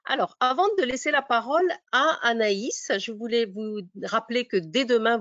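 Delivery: normal talking voice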